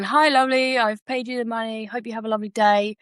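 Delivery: mock-nice message read aloud; being nice. Woman forcing herself to message the creditor, being nice. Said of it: "like, being nice".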